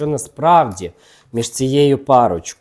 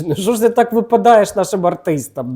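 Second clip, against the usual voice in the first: laughing tease; 9 semitones higher, 5 dB louder than usual. Real, not acted. Teasing the card about Masha.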